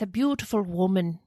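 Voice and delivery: lightly put-on Irish accent. Repeating the Irish neighbour's answer for co-host, Irish accent. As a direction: voice the Irishman with a slight lilt. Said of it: "the Irishman, he says".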